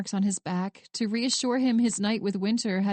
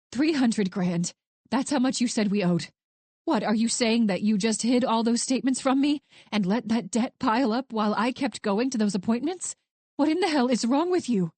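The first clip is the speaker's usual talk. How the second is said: sharp. Acted. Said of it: "The sharpness had left her voice".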